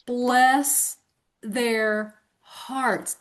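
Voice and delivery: put-on slow, drawn-out Southern accent; sweet Southern bless-your-heart delivery. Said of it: "with my Southern accent".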